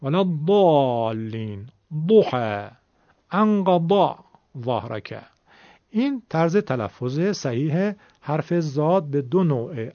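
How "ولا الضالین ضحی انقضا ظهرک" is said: slow "الضالین" with a thick, emphatic d; every Dad a heavy d, as in "ضحی"; heavy Egyptian Dad. Shown as a demonstration. Teacher reciting example words, heavy d. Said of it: "دال درشت بگید".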